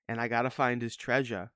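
slow, put-on Boston accent. Imitating an actor's movie role, mock Boston accent. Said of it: "the only accent he can do".

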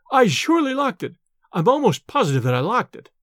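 lightly voiced frightened young man, stumbling; nervous stammer. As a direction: blurt it out, half afraid. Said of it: "he stammered".

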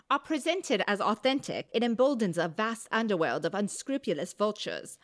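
light Hermione Granger British voice; a hint of a prim British schoolgirl; British accent. Co-host rereading a John Oliver quote as Hermione. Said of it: "It felt very Hermione Granger to me".

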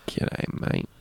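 breathy whispered repeat; whispering the famous line back; whispered echo. Shown as a demonstration.

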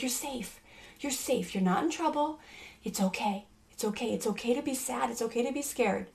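soft, gentle reassurance; reassuring son. Retold or imitated. Mother soothing her scared son, softly reassuring. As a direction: hush him gently, you're safe.

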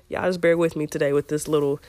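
hoarse from a scratchy throat; raspy voice. Real, not acted. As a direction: talk through a raspy throat. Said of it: "this little deep, raspy voice".

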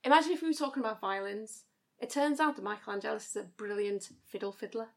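put-on Liverpudlian accent; demonstrating a Scouse accent. Shown as a demonstration. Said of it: "can you do a Scouse accent?".

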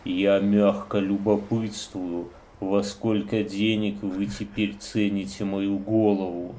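slow, low creepy reading; sinister letter read. Acted.

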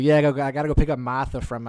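rough imitation of a Boston accent; butchered Boston accent. Guest imitating a video of two friends, clumsy Boston accent. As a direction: have a go at a Boston local's accent. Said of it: "doing Boston accents. I'm gonna butcher it".

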